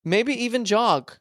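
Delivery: hyped announcer with a drawn-out countdown. Pretend. Host counts listeners into the show, announcer voice. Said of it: "with my announcer voice".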